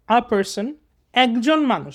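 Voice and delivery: "a person", pause, then "একজন মানুষ"; broken into chunks. Shown as a demonstration. Teacher showing students piece-by-piece reading, broken into chunks. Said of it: "দেখছো আমি ভেঙে ভেঙে পড়তেছি".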